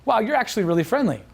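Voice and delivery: "Wow, you're actually really friendly" with "you're" lifted high in surprise; surprised compliment. Shown as a demonstration. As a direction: sound pleasantly surprised she's friendly, pitch jumping up. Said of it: "That I'm surprised that she's so friendly".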